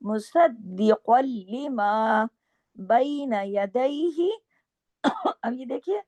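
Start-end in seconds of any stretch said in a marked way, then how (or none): 0.0-4.3 slow melodic tajweed chant; slow Quranic recitation with held vowels. Shown as a demonstration. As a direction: recite the verse slowly, stretching each vowel. Recites verse slowly.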